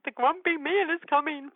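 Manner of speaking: put-on high, hushed child's voice, head down; a small child warning her family; little girl's voice. Child whispering about grumpy man.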